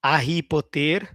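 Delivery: Harry Potter mangled as "ahi po-TER"; wrong pronunciation. Shown as a demonstration. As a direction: mispronounce Harry Potter, no H, stressed final syllable. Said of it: "is a pronunciation problem".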